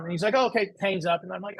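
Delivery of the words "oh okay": higher-pitched mock British reply; lightly put-on British accent. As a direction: imitate a British caller, pitched up. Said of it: "from a guy with a British accent".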